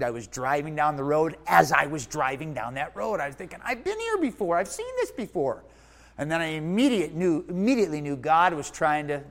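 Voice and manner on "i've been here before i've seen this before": high-pitched voice of sudden recognition; retold startled realization. Preacher recalls recognizing the road from his dream, startled realization. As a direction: act out a jolt of recognition, pitched up.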